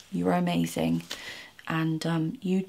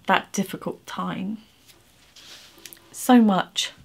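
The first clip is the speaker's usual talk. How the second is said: emotional. Real, not acted. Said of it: "Sorry for getting emotional".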